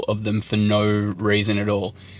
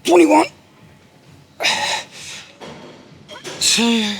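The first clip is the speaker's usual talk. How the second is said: lifting weights; 7 semitones higher, 8 dB quieter, slower than usual. Real, not acted. Counting reps mid-set.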